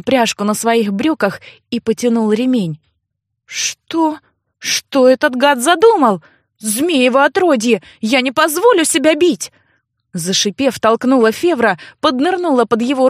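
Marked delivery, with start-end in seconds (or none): 3.5-9.5 alarmed cry of refusal; alarmed outburst. Acted. Girl refuses to be beaten by her brother, alarmed.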